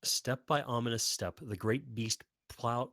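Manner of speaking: ordinary delivery, nothing marked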